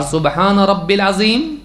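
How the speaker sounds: slow "رب العظیم" as rab-bil azeem, no "ya"; wrong RABBIL. Shown as a demonstration. Teacher shows the faulty reading, "رب العظیم" slowly said rabbil. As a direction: merge "رب العظیم" into rabbil, drawn out. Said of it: "یہ غلط ہے".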